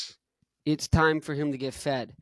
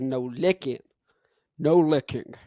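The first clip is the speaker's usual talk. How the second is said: firm scolding. Retold or imitated. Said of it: "I said".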